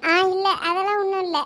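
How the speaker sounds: denying it through held-back tears; tearful. Acted. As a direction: brush off the question, a little tearful. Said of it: "என்ன அழுதுகிட்டா இருக்க". (அழுகையை அடக்கிக்கொண்டு)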